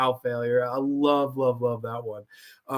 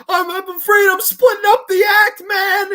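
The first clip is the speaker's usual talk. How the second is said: high, loud comic menace; deadpan threat; 9 dB louder than usual. Retold or imitated. Don Rickles warns his brother before cutting, high mock menace. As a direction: threaten him in a cartoonish high voice. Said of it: "I have this fucking creature".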